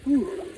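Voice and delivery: high loud whew from the cold; sharp exhale from cold. Real, not acted. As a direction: gasp out a shocked whew. Gasp leaving the ice bath.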